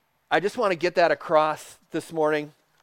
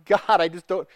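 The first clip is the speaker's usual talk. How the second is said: higher pitch, acted protest to God; acted anguished plea; 4 semitones higher, 4 dB louder than usual. Struggling believer pleading with God, acted anguish. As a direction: plead upward as if overwhelmed.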